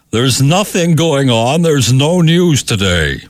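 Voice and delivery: high, drawn-out dare line; mock on-air announcement. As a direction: stretch it out high and slow, like a teasing bulletin. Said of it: "dared me over the years so many times to go on the air and say".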